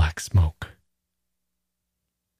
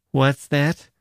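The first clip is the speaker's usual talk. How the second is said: Gusev mimics the sailor's puzzled question; sneering echo of the sailor; mocking mimicry; 5 semitones higher than usual. A narrator's reading. Gusev mocks the sailor, echoing his question scornfully. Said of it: "Gusev mimicked him".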